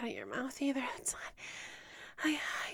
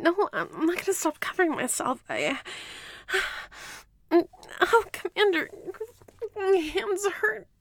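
higher and louder, frightened pleading; distressed protest; 4 semitones higher, 6 dB louder than usual. Acted. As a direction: cry out against being uncovered.

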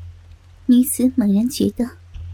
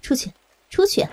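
brusque refusal, pitch jumping on the dismissal; understated scolding innkeeper; mild loud scolding. Acted. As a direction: send them away sternly, without really shouting. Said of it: "大声地说".

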